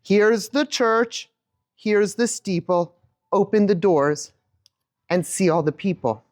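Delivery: slow sing-song rhyme; nursery rhyme with the audience. Shown as a demonstration. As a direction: lead the room through it slowly. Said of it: "do it with me again".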